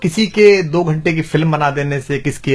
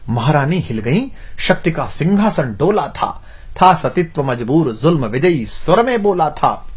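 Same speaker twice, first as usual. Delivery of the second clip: measured declamation of heroic verse; rhythmic Hindi verse recital; poem recitation. Acted. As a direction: recite like a poet, phrase by phrase.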